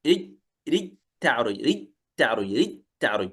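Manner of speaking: رج تعرج with the jim dropped into a doubled t, rittaʕruj; merged jim into ta. Shown as a demonstration. Teacher drilling the merged reading. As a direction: fold the j of المعارج into the t of تعرج. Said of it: "يقرأ قوله".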